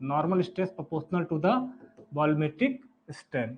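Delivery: very slow, each word spaced for note-taking; dictating slowly word by word; slow dictation. Real, not acted. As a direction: spell it out slowly for students to write. Teacher dictating formula for notes.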